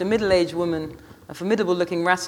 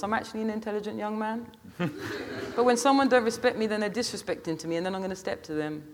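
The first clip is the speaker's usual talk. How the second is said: aggrieved Marcus; 5 semitones higher, 4 dB quieter than usual. A narrator's reading.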